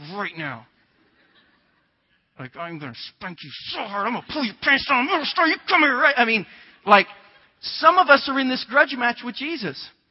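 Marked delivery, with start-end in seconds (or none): 0.1-6.1 put-on scolding through gritted teeth, swooping and rising. Imitating a parent calling a child in a grocery store: imitating a parent through gritted teeth. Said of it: "you're gonna grit your teeth like".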